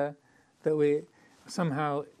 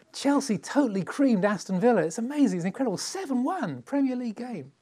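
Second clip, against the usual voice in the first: high-pitched, breathless run of amazement; excited sports fan; 7 semitones higher than usual. Acted. Fan bounding into the office about Chelsea's win, excited. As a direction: gush about your team's huge win. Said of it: "Maybe you're really excited about that".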